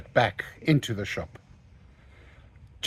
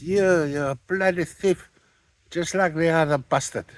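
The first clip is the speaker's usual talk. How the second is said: angry insult; 6 semitones higher than usual. Retold or imitated. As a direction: spit out the insult as the furious shopkeeper. Shop owner insults the salesman.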